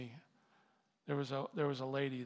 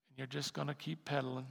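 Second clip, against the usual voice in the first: ordinary talk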